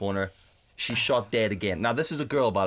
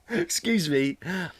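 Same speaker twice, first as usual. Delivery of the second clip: indignant protest; 8 semitones higher than usual. Retold or imitated. Retells protest at her switching off.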